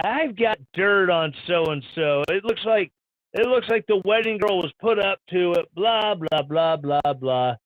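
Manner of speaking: bad, hammed-up Italian accent; mock a gossiping Italian with a clumsy accent; crappy Italian accent. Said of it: "I'm getting told my Italian accent sucks".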